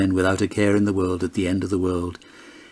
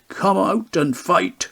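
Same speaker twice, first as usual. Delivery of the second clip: taunting challenge; 10 semitones higher, slower than usual. A narrator's reading. Challenge shouted in a pub.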